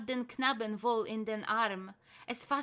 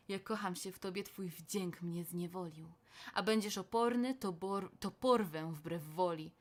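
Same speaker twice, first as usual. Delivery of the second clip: menacing Erlking; 3 semitones lower than usual. Acted. Elf King threatening to take the boy by force, menacing.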